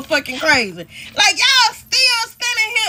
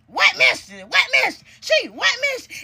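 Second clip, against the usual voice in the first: mock panicked baby daddy; 4 semitones higher than usual.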